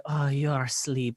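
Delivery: put-on hushed, low Eastern European accent; imitating an Eastern European woman, very soft. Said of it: "she looked like Eastern European Snooki".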